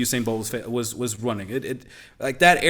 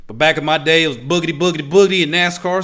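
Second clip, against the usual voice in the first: put-on southern accent; 5 dB louder than usual. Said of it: "I gotta speak my southern accent".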